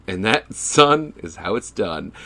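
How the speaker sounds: slow, self-assured line dropping away at the end; coolly imparted wisdom, unhurried. Retold or imitated. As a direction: imitate a smooth man schooling a youngster. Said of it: "he very coolly says".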